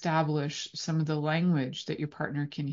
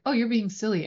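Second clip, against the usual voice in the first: higher, bouncy playful tone; 6 semitones higher, 3 dB louder, faster than usual. Shown as a demonstration. Partner turning it into a playful chat, teasing. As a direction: say it like an invitation to play. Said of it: "turns into a playful conversation".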